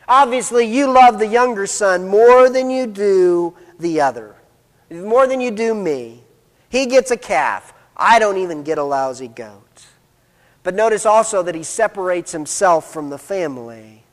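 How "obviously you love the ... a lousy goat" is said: lightly acted wounded complaint; accusing. Older son accuses his father of favoritism, mildly resentful. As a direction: grumble it as the slighted brother. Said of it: "he accuses his father of favoritism".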